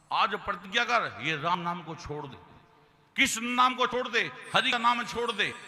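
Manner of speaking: loud, high commanding threat; angry threat. Acted. King threatening Prahlad to give up God's name, furious. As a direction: order him to give it up.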